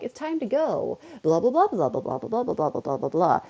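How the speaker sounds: swooping opening, then rattled-off falling blahs; self-mocking babble. Streamer mocks their own endless talking, sing-song then babbling. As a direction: imitate yourself prattling on past the goodbye. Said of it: "Even I'm like".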